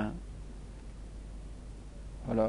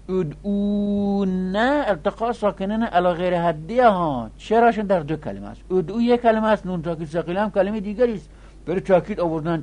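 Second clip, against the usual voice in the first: higher and louder, pressing the point; emphatic explaining; 8 semitones higher, 6 dB louder than usual. Real, not acted. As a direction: drive the point home to the class. Teacher insists on the key point. (با تأکید و صدای بلندتر توضیح بده)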